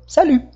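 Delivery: "salut" ending in a pouted French u; high-pitched "salut" with rounded last vowel; "salut" with silent T and fronted u. Shown as a demonstration. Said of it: "fazer um pouquinho mais do biquinho".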